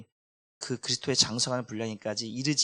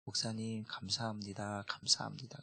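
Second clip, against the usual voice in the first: tearful thanks; 3 semitones lower, 8 dB quieter than usual. Retold or imitated. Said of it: "눈물을 흘리면서".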